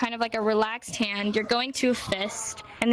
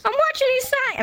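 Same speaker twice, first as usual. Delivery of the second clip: playful tease; 14 semitones higher, 5 dB louder than usual. Acted. Teasing students after accusing them.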